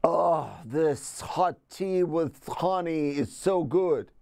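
slow, drawn-out, relishing; savouring tea. Pretend. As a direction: linger over every word as you sip.

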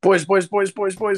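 high, sing-song greeting; playful calling out. Real, not acted. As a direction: call out to the gang cheerfully. Greeting friends joining call.

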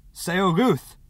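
high, loud call through a shut door; full-voiced yelled name. A narrator's reading. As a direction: yell her name to get let in. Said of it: "he yelled".

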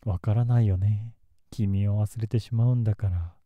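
menacing. Acted. Obsessive outburst, louder.

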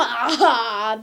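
short barked "Aha!" laugh; demo laugh. Shown as a demonstration. Vlogger showing viewers how he laughs, one sharp "Aha!". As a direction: bark out one quick laugh. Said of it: "diye böyle gülerim".

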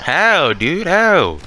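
high, loud disbelieving question; can't believe it, demand why; incredulous. Real, not acted. Disbelief at a story.

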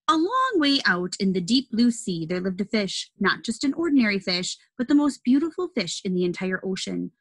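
storybook narration; reading to children. Acted. Reads picture book aloud.

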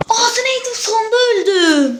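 high, loud, slowing cry of defeat; anguished wail. Real, not acted. Gamer dies at the very end and wails, high and crying. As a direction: wail it like the loss hurts.

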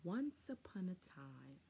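breathy whispered opening; hushed storybook whisper. A narrator's reading. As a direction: whisper it like a secret.

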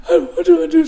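high, loud mock cry; acted tearful desperation; panicked wail. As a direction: wail helplessly, re-enacting panic. Re-enacting his blinded panic.

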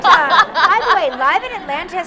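high, loud excited laugh. Real, not acted. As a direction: laugh with delight at the idea.

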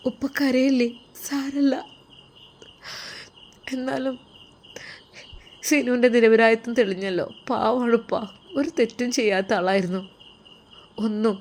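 put-on a young woman gently comforting her weeping father-in-law; tearful young woman consoling. Daughter-in-law consoles crying father.

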